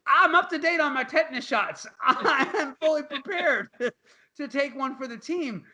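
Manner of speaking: laughing through the words; giggling while vowing to suffer. Real, not acted. Joking to his cohost, laughing through it.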